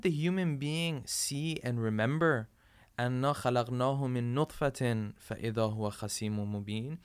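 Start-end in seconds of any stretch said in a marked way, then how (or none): 3.0-7.0 fast recited Arabic verse, rising; Quran recitation. Acted. Preacher reciting the verse to the congregation, fast chant.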